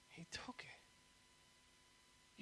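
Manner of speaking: very soft, drawn-out whisper; hushed repeat. Real, not acted. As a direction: drop to a slow, reverent hush.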